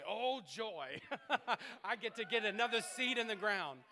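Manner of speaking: giddy, laughing delight; joyful laugh. Pretend. Giver at the offering, laughing with joy. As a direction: laugh through it with glee. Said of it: "You would say".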